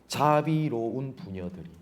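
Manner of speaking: slow, drawn-out mock reverence; sarcastic. Preacher repeats God's ironic words to the congregation, sarcastic. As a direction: linger on the words with understated irony. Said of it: "하나님께서 비꼬시는 겁니다".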